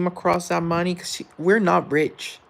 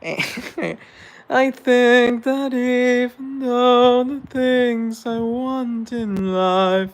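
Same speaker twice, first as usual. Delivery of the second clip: laughing rant; 9 semitones higher, 6 dB louder, much slower than usual. Real, not acted.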